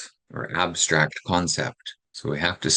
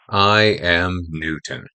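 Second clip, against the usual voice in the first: slow, louder announcement of his name; dramatic new teacher; 4 dB louder, slower than usual. Retold or imitated. New teacher introduces himself to a kid, slow and louder. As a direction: plant it like a new teacher facing the class. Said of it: "this dramatic example".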